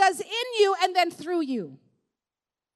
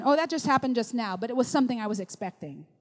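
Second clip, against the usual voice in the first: low, offhand answer; nonchalant reply; 6 semitones lower, faster than usual. Acted. Expectant believer answering amazed onlookers, nonchalant reply. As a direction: toss it off as no surprise.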